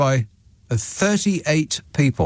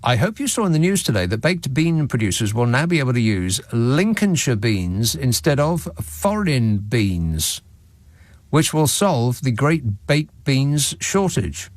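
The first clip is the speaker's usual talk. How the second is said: slow careful reread. Real, not acted. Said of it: "reread slowly".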